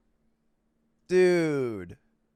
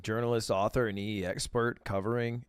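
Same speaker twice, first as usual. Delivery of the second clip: a light imitation, lower, with a long swinging reading tune; lightly mock a streamer reading a headline aloud, lower and softer; Hassan's reading voice; 6 semitones lower, 6 dB quieter than usual. Mocking how Hassan reads chat headlines: a light imitation with a swinging tune. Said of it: "You ever notice Hassan's reading voice?".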